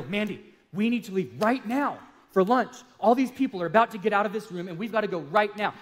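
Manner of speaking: high-pitched, urgent plea to leave; worked-up, imitated urgency; intense. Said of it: "how intense I was being".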